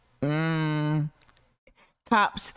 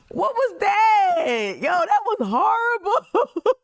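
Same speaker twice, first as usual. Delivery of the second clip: shrieked disbelief; 11 semitones higher, 4 dB louder, slower than usual. Real, not acted. Mock-shocked reaction to speech.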